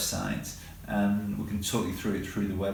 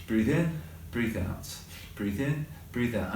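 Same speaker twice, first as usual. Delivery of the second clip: guided breathing. Shown as a demonstration. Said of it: "Simple one, mindfulness".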